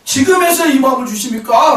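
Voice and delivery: re-enacted plea of objection; protesting to God. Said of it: "하나님 앞에 항변하고 있더라는 거예요".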